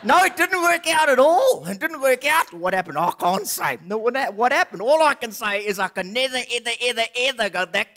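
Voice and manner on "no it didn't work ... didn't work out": dramatic dismay. Acted. Old man dramatic denial.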